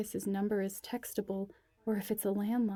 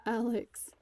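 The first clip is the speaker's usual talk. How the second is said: whimpering. A narrator's reading. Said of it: "she whimpers".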